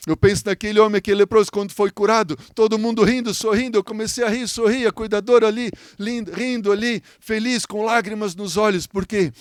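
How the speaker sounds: high-pitched, fervent preaching; pregação emocionada. Real, not acted. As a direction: tell it with a preacher's lifted voice. Preaches with fervour. (pregação emocionada, em tom agudo)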